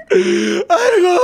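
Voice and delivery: high mock-sobbing cry; imitating drunk mother wailing. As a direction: let out a high, exaggerated weepy lament. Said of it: "she was so drunk, she kept going".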